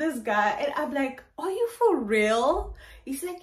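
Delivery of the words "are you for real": shocked. Retold or imitated. Repeat of shocked question.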